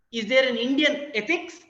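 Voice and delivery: ethics stretched out at the end; stress on ethics. Shown as a demonstration. Lecturer to students, stress on ethics. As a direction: lean on the word ethics. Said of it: "It's just stressed in different ways, at different words".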